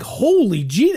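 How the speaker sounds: retold astonishment. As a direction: act out being caught off guard. Startled as dog bolts, retold.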